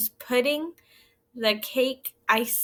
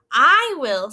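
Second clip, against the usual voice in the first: eager rat; 8 dB louder than usual. Acted. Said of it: "said the rat".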